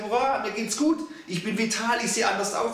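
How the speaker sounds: a body cheering about feeling vital, in a mock cheer. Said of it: "Mein Körper schreit".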